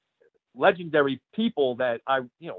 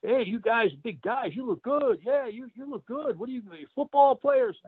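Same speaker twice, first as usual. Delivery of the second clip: much higher, hammed-up voice of a cocky local; local guy; 9 semitones higher than usual. In the parking lot, a local guy flatters the wrestlers, voiced much higher and hammed up. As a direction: play the small local guy sizing up the big men. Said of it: "He's like".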